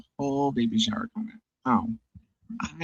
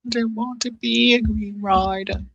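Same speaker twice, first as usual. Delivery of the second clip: high, slow, loud put-on voice; audiobook character voice; 14 semitones higher, 7 dB louder, slower than usual. Reading a line to chat in the audiobook voice. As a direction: quote it like the audiobook narrator's character. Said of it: "based on the voice in the audiobook".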